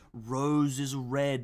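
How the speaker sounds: very slow, grand recital of "Rose is red"; dramatic slow recital. Shown as a demonstration. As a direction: draw out "Rose is red" like poetry. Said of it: "Look at these bars".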